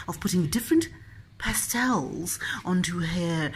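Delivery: lightly hushed art commentary voice; mock commentator. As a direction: narrate like a gallery documentary. Art-gallery commentator over child painting.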